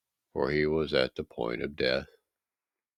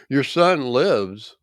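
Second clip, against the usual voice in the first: high, slow, louder cry of joy; joyful news; 8 semitones higher, 5 dB louder, slower than usual. Acted. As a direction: announce the good news gladly. Servants bring joyful news.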